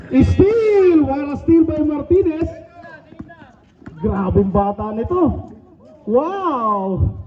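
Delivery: drawn-out calls on big plays; live play-by-play. Real, not acted. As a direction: call the basketball game live.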